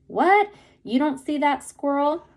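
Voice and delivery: can't believe you missed it; incredulous. A narrator's reading. Rufus asks Kenny about the squirrel, incredulous.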